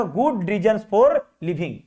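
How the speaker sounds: very slow again, leaning on for; slow answer repeat. Shown as a demonstration. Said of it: "क्या हो जाएगा". (उत्तर को दोबारा धीरे पढ़ना)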